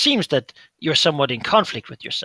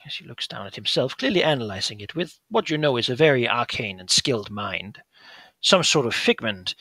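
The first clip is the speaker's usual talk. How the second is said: put-on calm older brother. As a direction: gently point out his madness. Brother muses.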